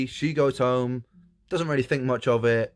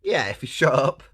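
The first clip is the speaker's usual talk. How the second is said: loud, higher-pitched frog retort; irritated frog; 5 semitones higher, 6 dB louder than usual. Acted. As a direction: snap back as a fed-up frog. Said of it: "He says".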